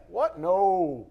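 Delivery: loud, high startled no; mock Jesus refusing. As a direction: snap from welcome into refusal. Jesus voiced, sudden refusal.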